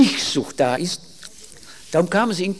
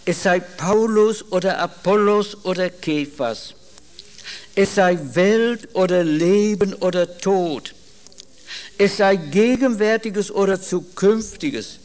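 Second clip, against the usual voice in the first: slow, weighty reading of the verse; solemn scripture reading; slower than usual. Acted. Preacher reads Paul's answer to Corinth, slow and solemn. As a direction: lay each phrase down with gravity.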